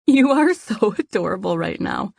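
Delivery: teasing through a giggle; a laugh breaks into the compliment; giggling. Acted. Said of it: "Lou giggled".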